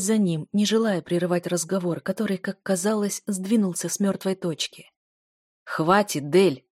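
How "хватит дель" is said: louder, stern call of her name; raised voice. A narrator's reading. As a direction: snap her name out loud. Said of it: "повысил голос маг тьмы".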